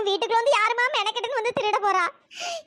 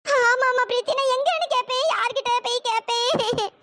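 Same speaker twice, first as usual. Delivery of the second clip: crying lament. Acted. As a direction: moan over the loss through tears. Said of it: "அத்தை please அழுகாதீங்க".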